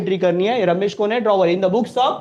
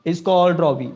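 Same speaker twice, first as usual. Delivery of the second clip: acted catchphrase; 3 dB louder, much slower than usual. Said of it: "अपना dialogue".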